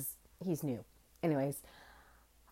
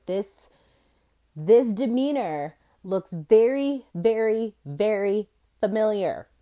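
dawning realisation; 5 semitones higher, 10 dB louder than usual. Retold or imitated. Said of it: "I said".

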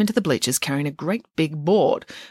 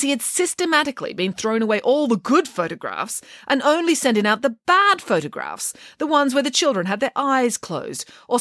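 a lightly voiced, higher indignant nanny; Nanny Piggins voiced; 5 semitones higher than usual. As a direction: tell it with grand outrage, a touch higher. Nanny Piggins tells her tale.

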